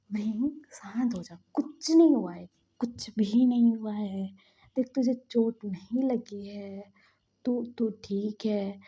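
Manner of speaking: slow, emphatic comforting; acted-out calming, deliberate and insistent; firm reassurance. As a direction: stretch out the reassuring words. Calming a panicking friend.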